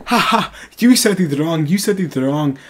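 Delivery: spoken "ha ha", teasing retold taunt; mocking laughter. Friend mocking his botched slur, laughing taunt. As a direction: imitate a friend jeering at a mistake. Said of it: "just starts laughing at me".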